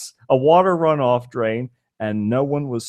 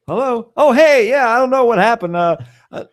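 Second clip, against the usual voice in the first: panicked phone call; 7 semitones higher than usual. Pretend.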